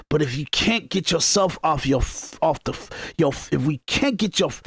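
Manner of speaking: stumbling over the words; stuttering. Real, not acted. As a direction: trip over the start of the phrase. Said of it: "I'm sorry for stuttering".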